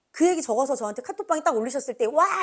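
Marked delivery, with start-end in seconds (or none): 2.0-2.4 excited exclamation. Retold or imitated. Retold exclamation of delight.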